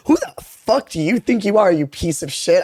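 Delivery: furious retort. Retold or imitated. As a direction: retell it as an angry challenge, drawing out the opening. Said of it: "so furious".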